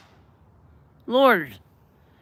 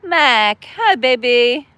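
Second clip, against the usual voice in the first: bright, loud hello to a favorite viewer; happy loud hello; excited greeting; 3 semitones higher, 5 dB louder, slower than usual. Real, not acted. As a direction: call out the greeting with delight.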